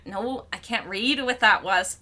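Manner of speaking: ordinary delivery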